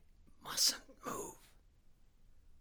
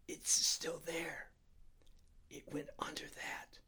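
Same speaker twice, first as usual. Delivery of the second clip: slower, softer whisper, fading away; 5 semitones higher, 8 dB quieter than usual. A narrator's reading. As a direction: barely breathe the words out. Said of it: "so softly I had to lean close".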